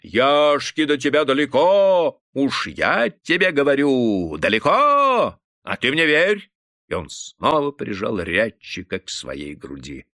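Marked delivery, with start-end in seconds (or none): 0.0-6.5 high, loud, slow ecstatic hollering; rowdy praise. A narrator's reading. Obalduy hugging the exhausted singer, high rowdy hollering. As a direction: crow with drunken glee at the winner. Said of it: "кричал Обалдуй".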